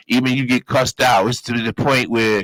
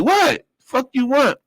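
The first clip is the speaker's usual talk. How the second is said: startled snap; 13 semitones higher, slower than usual. Retold or imitated. Woken by guards at the door, mock hostile. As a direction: snap back at the knock on the door. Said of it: "I'm like".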